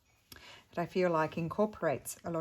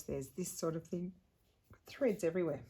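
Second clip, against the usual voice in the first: hiccups between words; hiccuping. Real, not acted. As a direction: talk through hiccups after eating. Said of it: "I'm hiccuping".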